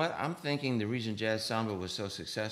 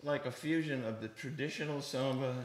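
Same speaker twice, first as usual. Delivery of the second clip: higher, louder talk through laughter; laughing; 7 semitones higher, 4 dB louder than usual. Real, not acted. Drummer laughing after the host praises him. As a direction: laugh while getting back on track. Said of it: "He knows his stuff".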